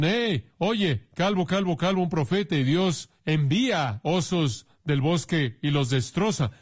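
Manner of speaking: put-on high, taunting kids chanting bald; mock the boys' taunt up high; jeering youths. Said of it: "jóvenes dicen". (burla aguda de jóvenes)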